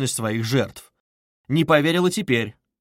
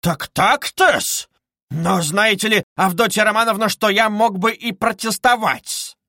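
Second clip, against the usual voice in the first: indignant outrage; 7 semitones higher, 4 dB louder than usual. A narrator's reading. Luzhin loses his thread.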